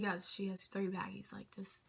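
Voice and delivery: urgent unvoiced whisper to friends; excited whisper. Telling her friends about the wristbands in an eager whisper. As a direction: hiss it to the friends beside you. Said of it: "I said".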